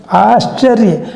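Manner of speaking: आश्चर्य with a half "sh" sound said quickly; careful pronunciation. Shown as a demonstration. Teacher modelling आश्चर्य for pupils, half "sh" said quickly. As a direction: say आश्चर्य with a short, half sibilant. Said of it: "इसको पूरा स नहीं बोलेंगे".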